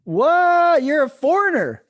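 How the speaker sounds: loud, high, drawn-out "what"; playfully scandalized outburst; mock shock. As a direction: exclaim in exaggerated disbelief, breaking into laughter. Mock shock at co-host's Korean birth.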